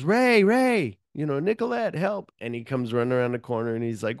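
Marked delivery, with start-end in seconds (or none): 0.0-2.3 high, loud panicked call; mock frantic call for help. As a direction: cry out across the mall for help. Jackie calling out for help in mall.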